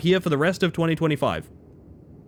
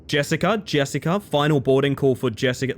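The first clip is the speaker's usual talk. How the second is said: intercom announcer. Retold or imitated. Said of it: "being like".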